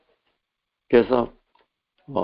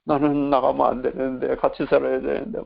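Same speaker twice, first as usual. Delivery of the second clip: higher-pitched tearful protest, lightly acted; imitated crying; 4 semitones higher than usual. Preacher voicing a spirit refusing to leave, imitated crying. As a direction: plead as if crying, only mildly. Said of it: "막 울어요".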